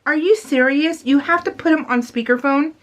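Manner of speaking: acted, indignant questioning; mock disbelief. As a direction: play appalled at someone's bad manners. Acted disbelief at speakerphone users.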